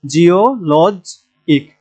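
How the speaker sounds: জিওলজ ইক slowly in parts, লজ stressed; slow syllable-by-syllable জিওলজ ইক. Shown as a demonstration. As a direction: break up জিওলজ ইক and lean on the middle লজ. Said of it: "তো আমরা লজ মাঝখানে বা পেনাল্টিমেটে গিয়ে stress দেব".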